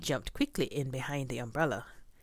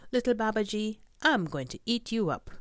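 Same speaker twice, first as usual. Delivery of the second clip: tiger, higher and louder, growing threat; threatening tiger; 7 semitones higher, 4 dB louder than usual. Acted. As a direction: loom over the boy with a higher, louder threat.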